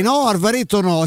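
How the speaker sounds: retold yell. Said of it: "E io urlai".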